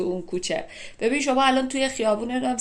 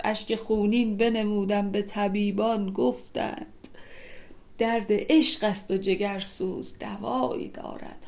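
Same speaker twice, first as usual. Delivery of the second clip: slowed, lingering reading of a Hafez line; poem recitation. Acted. Teacher quoting Hafez to explain bloody tears, in a slow recitation. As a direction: let the last half-line stretch out slowly.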